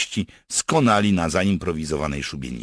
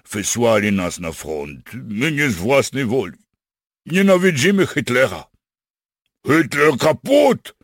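high, loud, desperate protest; yelling; 8 semitones higher, 9 dB louder than usual. Acted. Captured German soldier pleads with partisans, yelling. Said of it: "wrzasnął Freder".

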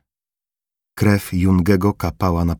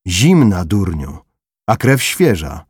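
louder, sharp contempt on durniu; scornful scolding; 4 dB louder than usual. Acted. Corporal scolding Formela over the corpse, louder scornful jab. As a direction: set the fool straight.

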